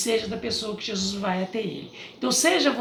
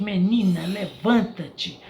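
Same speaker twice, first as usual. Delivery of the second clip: loud; 5 dB louder, slower than usual. Retold or imitated. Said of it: "disse em voz alta".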